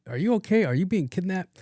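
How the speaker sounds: high-pitched alarmed questions; mock panicked parent. Family checking on someone who broke routine, mock panic. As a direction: fret in a high, exaggerated voice.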